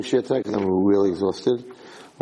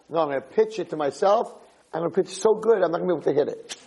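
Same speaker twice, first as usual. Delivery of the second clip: put-on cocky kid; 6 semitones higher than usual. Kid insists on pitching.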